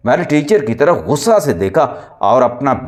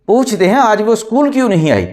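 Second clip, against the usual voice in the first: mischievous; 9 semitones higher than usual. A narrator's reading. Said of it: "Gangu ने शरारत से कहा".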